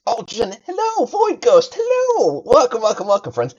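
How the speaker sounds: bright, loud, high-pitched welcome; big streamer hello; excited greeting. Real, not acted. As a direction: call out hello to the chat, thrilled.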